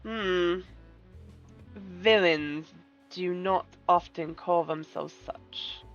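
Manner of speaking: a gracious schemer taking offence; silky polite villain. Acted. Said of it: "Get your best villain voice ready".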